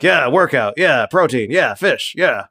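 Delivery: lightly voiced chatty guard, repetitive bouncing tune; mild oblivious jibber-jabber. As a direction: jabber away, each "yeah" falling the same way. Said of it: "just jibber jabbering your ear off".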